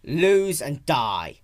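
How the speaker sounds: a dragon's bleak mantra before battle; grim battle cry. Acted.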